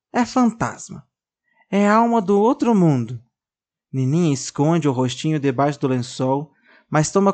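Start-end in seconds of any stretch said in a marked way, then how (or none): 0.1-3.2 scared. Acted. Scared girl imagines ghost.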